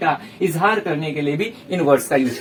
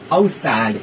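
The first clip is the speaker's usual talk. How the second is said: sad exclamation; 7 semitones lower than usual. Shown as a demonstration. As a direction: lower "How sad" with a heavy fall. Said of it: "हम बोलते हैं ना". (दुख के साथ गिरती आवाज़ में)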